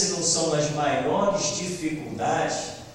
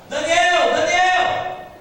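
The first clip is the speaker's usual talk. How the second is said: high, raised, anxious-king call; 7 semitones higher than usual. Acted. King at dawn calls to Daniel in the lions' den, calling out. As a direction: call out to someone trapped far below.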